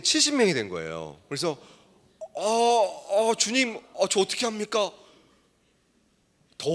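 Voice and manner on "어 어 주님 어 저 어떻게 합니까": flustered plea. Retold or imitated. Overwhelmed by seventy students.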